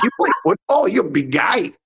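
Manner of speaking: high-pitched presidential mimicry; hammed-up imitation, pitched well up on the question; Trump impression. President sizing up a big visitor, Trump impression. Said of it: "Is that your Trump in, impression".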